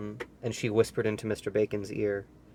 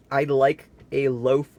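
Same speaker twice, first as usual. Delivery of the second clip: roaring; 4 dB louder, slower than usual. Acted. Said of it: "roared Mister Noisy".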